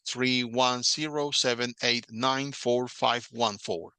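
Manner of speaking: slow, each digit said separately; slow, even dictation of digits. Shown as a demonstration. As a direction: read the phone number out one digit at a time. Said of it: "Uno por uno".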